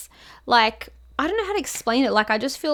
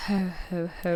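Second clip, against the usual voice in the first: sighed ho ho ho; 6 semitones lower, 10 dB quieter than usual. Shown as a demonstration. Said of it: "I'm like, sighing outwards".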